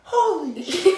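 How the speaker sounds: dad imitating his son yelling a movie line; laughing kid shout. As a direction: shout it like a giddy kid while cracking up. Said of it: "Tanner just stood up ... like".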